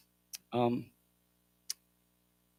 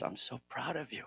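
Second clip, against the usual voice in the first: soft, tender praise; 4 semitones higher, 15 dB quieter than usual. Retold or imitated. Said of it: "in that quiet moment".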